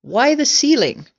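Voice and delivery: high, loud, baffled question; astonished cry. A narrator's reading. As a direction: demand a reason in disbelief. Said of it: "they cried".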